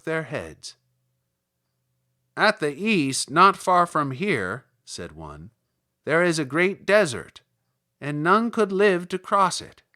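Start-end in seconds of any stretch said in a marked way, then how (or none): 2.4-4.7 louder little Munchkin voice. Acted. Munchkin tells Dorothy about the shoes, louder. 6.0-9.8 louder little Munchkin voice. Acted. Munchkin tells Dorothy about the shoes, louder.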